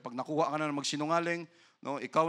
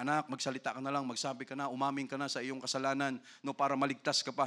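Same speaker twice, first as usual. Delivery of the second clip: gentle coaxing parent; 3 semitones lower, 4 dB quieter, faster than usual. Retold or imitated. Parent urging child to confess.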